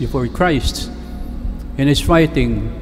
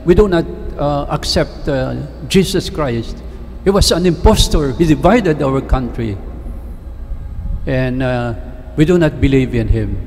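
angry retelling. Retold or imitated. Angry guide rebuking the priest who asked about Jesus, mildly acted indignation.

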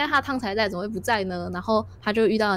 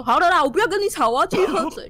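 mildly angry giant; 6 semitones higher, 5 dB louder than usual. Acted. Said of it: "虽然他很生气".

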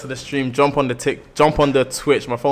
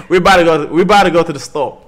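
loud, higher attempt at an American accent; imitated American accent; 4 semitones higher, 8 dB louder than usual. Shown as a demonstration. Streamer copying co-host's line, imitated American accent. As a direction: have a go at her American accent. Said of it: "if I could do your accent, you could do mine".

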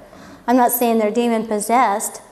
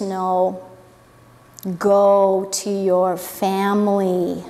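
gentle Jesus; 5 semitones lower, much slower than usual. Retold or imitated. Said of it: "and says".

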